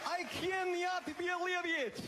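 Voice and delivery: high-pitched, hammed-up Russian accent. Comic playing a Russian stuck in traffic, mock Russian accent. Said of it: "the Russian accent, it's the letter Y".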